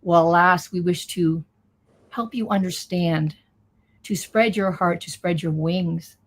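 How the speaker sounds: channeling voice. Acted. Channels the beings' message.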